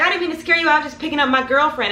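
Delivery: imitated apologetic man. Man explains himself, voiced.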